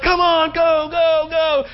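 high-pitched hollered urging; screaming coach. Acted. Coach in the runner's ear during laps, screaming. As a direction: yell them on like a pushy coach. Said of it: "dumb coach over here screaming in your ear".

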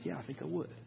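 softly voiced, tentative agreement; meek acted reply. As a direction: answer quietly, not fully committing. Acted reply of the questioned missionary.

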